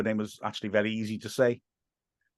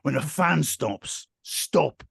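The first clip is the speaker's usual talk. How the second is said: slow, unconvincing warning; lightly put-on hard-man ad voice; Ray Winston; 4 semitones higher, much slower than usual. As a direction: drag out an insincere slogan. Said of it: "He says in the most unconvincing voice".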